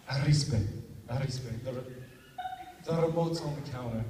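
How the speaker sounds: sleep-talk with the R in "Arispe" trilled; rolled R's. Retold or imitated. Half-asleep to his roommate, trilling the R in "Arispe". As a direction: roll the R's in "Arispe" and "remote's". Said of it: "I roll my R's when I'm sleeping".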